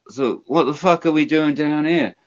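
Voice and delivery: a hint of a baffled rocker impression. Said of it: "he's like".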